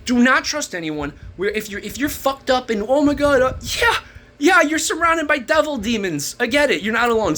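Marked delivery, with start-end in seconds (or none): 2.9-7.4 mock lament. Imagined sufferer's complaint, mocked.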